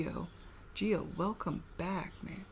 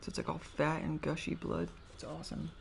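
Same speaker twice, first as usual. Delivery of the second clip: words thick from a bitten tongue; talking around a sore bitten tongue; just bit tongue. Real, not acted. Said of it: "talking funny 'cause I bit my tongue".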